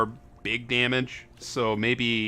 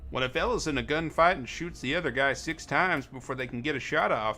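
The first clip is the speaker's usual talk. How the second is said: put-on southern accent; 3 semitones higher than usual. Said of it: "my southern voice or whatever".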